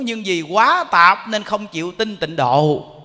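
ordinary delivery

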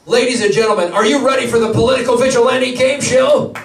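big, rousing game show host announcement. Pretend. Host firing up the crowd for the game show, game show voice. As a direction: kick off the show with a shout. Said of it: "so I have a game show voice".

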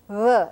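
isolated "v" made with both lips; Spanish-style "v", lips loosely together; bilabial fricative. Shown as a demonstration. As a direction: buzz "v" between the two lips, not lip and teeth. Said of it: "It's a bilabial fricative".

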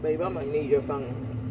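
talking around a spoon; eating while speaking; mouth full of ice cream. Real, not acted.

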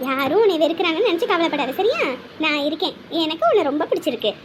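low, soothing voice; tender reassurance. Acted. Aunt promising child she is there, tender. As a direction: reassure a hurt child gently.

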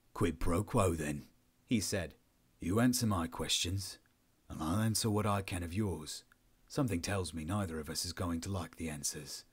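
low, measured officer's voice; reasonable interrogating officer. Acted. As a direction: offer a deal, calm and guarded.

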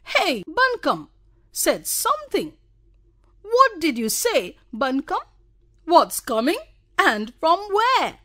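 high, loud mock surprise; mock amazement. A narrator's reading. Friends mocking Bonku Babu, high and falsely amazed. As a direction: feign amazement to tease. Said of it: "pretended to be amazed".

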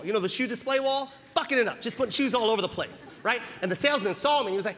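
usual speaking voice

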